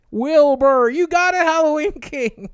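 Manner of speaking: loud, high excited shout; cheering a chat winner. Real, not acted.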